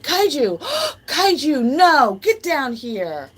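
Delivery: high, loud shout at the dog; startled shouting at a pet; yelling at dog. Real, not acted. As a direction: call the dog off sharply.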